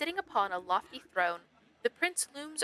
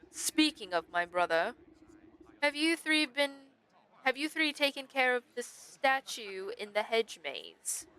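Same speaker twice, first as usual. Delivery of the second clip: lightly voiced suspicious monarch; regal, pointed questioning; royal stag questioning underlings; 2 semitones higher than usual. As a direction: question your nobles as their king, drawing out the end.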